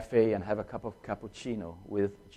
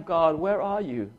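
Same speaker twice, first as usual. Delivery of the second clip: high, slow anguished plea; crying out; 5 semitones higher than usual. Retold or imitated. Widower crying to God in the night, anguished. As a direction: call into the empty night sky. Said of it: "I've been crying".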